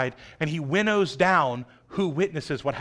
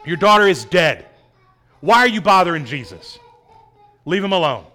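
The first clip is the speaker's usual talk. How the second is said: blunt; 6 dB louder than usual. Acted. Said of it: "Talk about bluntness".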